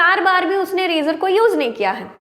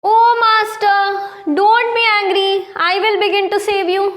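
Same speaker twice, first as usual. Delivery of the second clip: pleading barber; 4 semitones higher, much slower than usual. Acted. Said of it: "सुल्तान के गुस्से को जब देखा".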